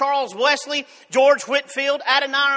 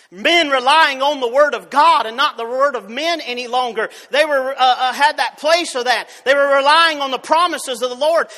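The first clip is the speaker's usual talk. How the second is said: preaching at full force; 3 dB louder than usual. Acted.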